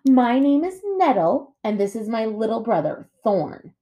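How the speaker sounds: high, lilting bear voice; sister bear, mock-polite. A narrator's reading. Sister bear introducing herself to the robot, mock-polite. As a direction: introduce them with false manners.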